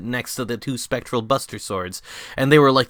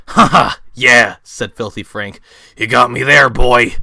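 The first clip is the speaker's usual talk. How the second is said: Filthy Frank voice; 9 dB louder than usual. Acted. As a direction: play Frank offering the baptism. Frank conceding.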